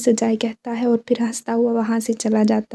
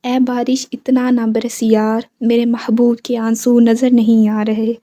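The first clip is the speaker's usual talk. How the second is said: reciting a couplet. A narrator's reading. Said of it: "वो शेर बोलकर".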